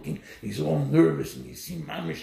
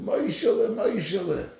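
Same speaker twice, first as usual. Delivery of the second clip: retold calling out; 6 semitones higher, 4 dB louder than usual. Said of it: "And she's screaming".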